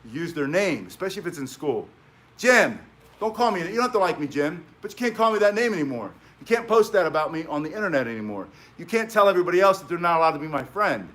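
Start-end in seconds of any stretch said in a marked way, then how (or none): 2.4-11.1 firm and direct. Shown as a demonstration. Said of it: "you say it in clear language and you mean it".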